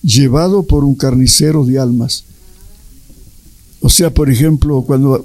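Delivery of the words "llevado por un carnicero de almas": a touch of sorrow in Jesus's answer; mildly sad Jesus. Retold or imitated. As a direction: say it with understated sadness. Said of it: "todo triste".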